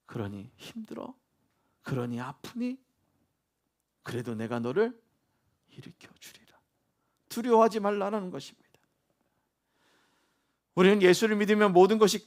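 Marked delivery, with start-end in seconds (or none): 0.1-6.6 hushed, low, gentle comfort; tender reassurance. Acted. God comforting the weary believer, soft tender reassurance. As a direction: soften right down, ending almost in a whisper.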